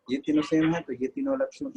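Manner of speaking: high, puzzled student voice; mimicking a student. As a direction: ask it like a confused pupil. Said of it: "अभी मैंने बोला था ना". (ऊँची, उलझी हुई छात्र की आवाज़ में सवाल)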